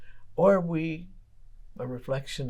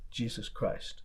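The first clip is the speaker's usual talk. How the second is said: whispered; 6 dB quieter, slower than usual. Acted. Pointed question to congregation.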